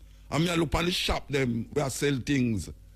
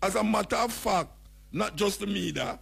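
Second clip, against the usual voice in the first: higher mock mayor voice, laughing at the end; 5 semitones higher than usual. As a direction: ham up the mayor's rant, then crack up. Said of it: "So him say".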